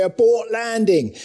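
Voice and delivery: high, loud emergency command; urgent captain shout. Retold or imitated. Preacher voicing the captain aborting landing, shouted. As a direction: bark it like a captain in a crisis. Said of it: "you hear the captain say".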